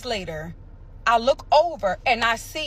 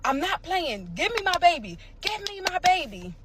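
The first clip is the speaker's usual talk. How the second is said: demanding; 8 semitones higher than usual. Retold or imitated. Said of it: "And I'm like".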